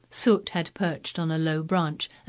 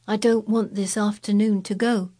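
put-on boy voice; 4 semitones higher than usual. Colin voiced, wistful boy.

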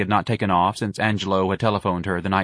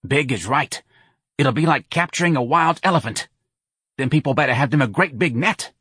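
a lightly voiced brassy New Orleans woman, a bit higher; Santa's voice; 7 semitones higher than usual. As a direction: push Irene to call the charity, lightly in character. Santa's phone talk, character voice.

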